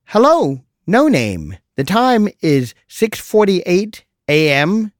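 mock chirpy phone assistant. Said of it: "in a chirpy voice".

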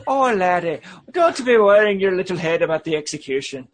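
lightly hammed-up Scottish burr; playful put-on Scottish accent; mock Scottish accent. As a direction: reassure like a stage Scotsman.

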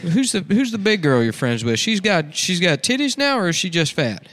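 high, pushy redneck uncle lecturing his niece; a sleazy uncle leaning in close; creepy uncle voice. Acted. Uncle voicing scolding niece Stacy.

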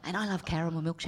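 hushed lovestruck. Retold or imitated. Mock lovers' confession.

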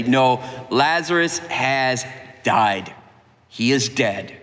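plain-spoken Jesus. Acted. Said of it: "he says it plainly".

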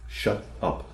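soft, nearly whispered confession; quiet admission. Acted. Girl quietly admits to her therapist she wants to tell her brother off, softly. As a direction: barely breathe the words shut up. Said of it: "said quietly".

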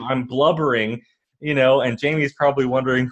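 normal talking voice

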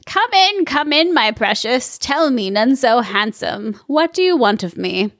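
lightly voiced cackling witch; a hint of a sly old witch. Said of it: "A plus witch voice".

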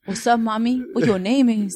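light mock Mexican-American accent; lightly hammed-up Taco Bell dog accent. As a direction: put on a playful Latino chihuahua accent. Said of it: "I just sound like a Taco Bell dog".

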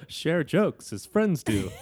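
high, slow, loud, giggling through the words; laughing repeat. Real, not acted. Host quoting a sweet line back while laughing. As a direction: savor the quote while cracking up.

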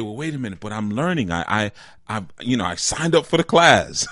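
lightly voiced indignant learner; mock protest. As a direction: protest like a put-out student. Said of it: "And we say".

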